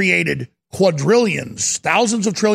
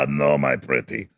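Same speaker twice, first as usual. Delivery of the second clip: a much lower cackle, then "my pretty" in a put-on witch voice; wicked witch cackle; 3 dB quieter than usual. Mock villain voice for Schwab.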